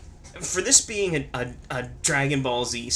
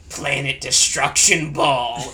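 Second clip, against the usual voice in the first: attack name yell; 6 dB louder, slower than usual. Retold or imitated. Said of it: "Frieza wasn't just like".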